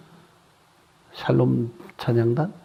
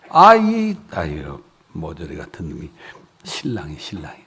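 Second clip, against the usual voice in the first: ordinary talk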